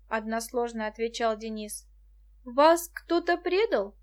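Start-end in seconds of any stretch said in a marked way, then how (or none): 2.4-3.9 worried, slow question; concerned. A narrator's reading. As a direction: ask gently with concern. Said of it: "озабоченно осведомилась Муся".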